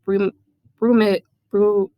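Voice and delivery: slow, halting attempts; sounding out an unknown word; stumbling over a word. Real, not acted. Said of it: "Hmm, never heard that".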